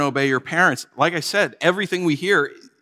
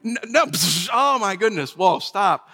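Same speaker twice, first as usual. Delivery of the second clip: alarmed stop; 5 semitones higher than usual. Retold or imitated. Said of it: "And I'm like".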